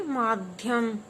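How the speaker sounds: माध्यम said slowly with a clear half ध; slow classroom model of माध्यम; slow model pronunciation. Shown as a demonstration. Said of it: "बोलिए".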